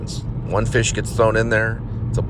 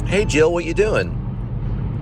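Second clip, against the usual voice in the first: friend voice; 11 semitones higher, much slower than usual. Retold or imitated. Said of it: "Nancy's like".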